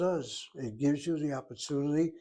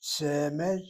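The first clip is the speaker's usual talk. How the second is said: Semed with the accent on the first syllable; Semed, opening syllable accented; first-syllable stress. Shown as a demonstration. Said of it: "get the accent on the first syllable".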